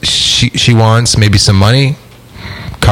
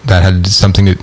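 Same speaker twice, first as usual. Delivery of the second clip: talking through hiccups; interrupted by hiccups; 3 semitones lower than usual. Real, not acted. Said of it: "You got the hiccups".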